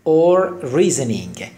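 "Or reasoning" drawn out, syllable by syllable; slow demo. Shown as a demonstration. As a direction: spell it out slowly for the class. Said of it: "slow teaching demo". (آهسته و کشیده برای آموزش)

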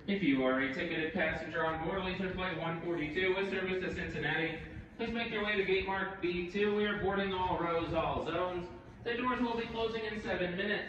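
boarding call on the PA; calm gate agent announcement over speakers; over the intercom. Real, not acted.

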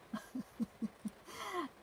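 short high giggle, amused at herself. Real, not acted. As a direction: laugh lightly at your own joke. Jokes about turning it off.

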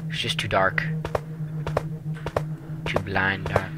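hushed whisper in the dark. Real, not acted. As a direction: breathe it, barely voiced.

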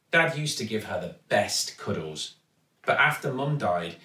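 ordinary delivery

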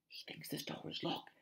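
hushed, secretive whisper. Acted. Harry to friends hiding behind the door, whispering. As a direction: whisper so nobody outside hears. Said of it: "Harry whispered".

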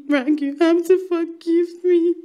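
loud, slowed, begging cry; desperate shout. Acted. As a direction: hammer the plea out slowly and loudly. Hysterical plea continues.

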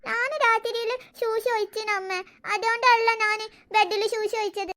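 put-on slow baby talk; tearful little boy. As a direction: explain slowly, like a sorry toddler. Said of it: "എന്തിനാ നീ കരയുന്നേ". (സങ്കടപ്പെട്ട കൊച്ചുകുട്ടിയുടെ കുഞ്ഞുഭാഷ)

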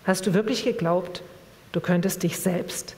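measured literary reading voice; calm book reading with voiced dialogue; story narration. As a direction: read the novel aloud to the audience. Reads a novel passage aloud.

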